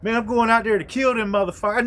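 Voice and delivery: fast furious shout; angry armed friend yelling fast; enraged friend. Retold or imitated. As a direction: spit it out in a rage. Armed friend ranting, voiced in story.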